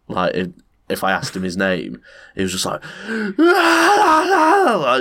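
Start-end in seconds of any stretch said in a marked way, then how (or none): 2.7-5.0 high-pitched cackling guffaw; imitating a crackhead's wild laugh; maniacal laugh. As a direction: throw the head back and cackle. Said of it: "head back, laughing".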